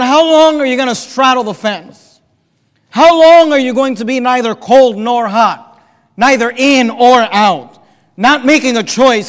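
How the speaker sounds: loud exasperated challenge; exasperated prophet's demand; frustrated. Acted. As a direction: press the crowd for a decision, loudly. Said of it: "see if you can hear the frustration".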